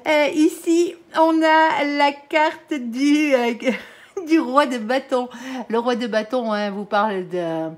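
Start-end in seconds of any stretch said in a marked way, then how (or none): 0.1-5.3 loud, high, drawn-out regional French accent; hammed-up own accent. Shown as a demonstration. Reader showing off her accent after apologising, hammed-up French accent. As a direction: play up your French accent proudly, stretching the words. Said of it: "Il est très beau, mon accent".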